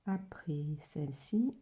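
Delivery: slow, hushed murmur to herself; whispered aside. Real, not acted. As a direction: breathe the words while she paints. Murmured aside while painting.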